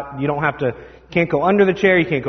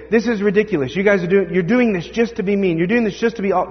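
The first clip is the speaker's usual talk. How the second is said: higher, mock-indignant complaint; indignant kid; 6 semitones higher, faster than usual. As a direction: accuse the leaders like a fed-up teen. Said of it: "some of them would say".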